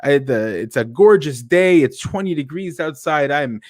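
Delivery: sincere delight. Shown as a demonstration. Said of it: "It could be something like".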